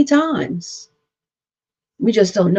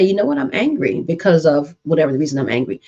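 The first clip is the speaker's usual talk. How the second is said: calmly stating anger; 3 semitones lower, faster than usual. Shown as a demonstration. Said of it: "My tone of voice didn't change".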